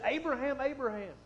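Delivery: angel calling from heaven, urgent; urgent double call. Acted. Angel calls Abraham from heaven, urgent emphatic call. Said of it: "Now that's for emphasis".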